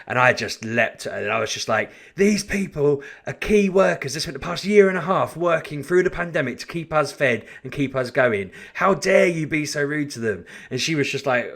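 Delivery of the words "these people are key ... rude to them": raised voice. Retold or imitated. Defending shop staff from a rude customer, raised voice. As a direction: stand up for the staff, firmly raised. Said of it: "because I raised my voice".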